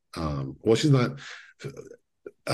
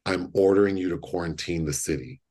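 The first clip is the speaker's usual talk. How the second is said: calm order; 3 semitones lower, faster than usual. Retold or imitated. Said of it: "in a very calm voice".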